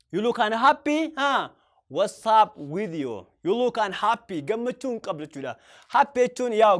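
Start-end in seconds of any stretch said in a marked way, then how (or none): 0.1-4.4 slow, at usual level; slow repeat. Shown as a demonstration. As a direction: repeat gently and slowly. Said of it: "Akka jettee gaafachuu dandeetta".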